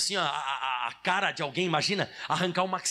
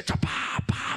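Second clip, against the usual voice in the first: mock fireworks bangs; much slower than usual. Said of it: "fogo de artifício".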